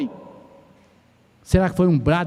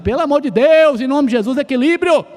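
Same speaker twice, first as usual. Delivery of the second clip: imitating a desperate shout; 6 semitones higher, 4 dB louder than usual. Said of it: "tem gente que grita, meio desesperado".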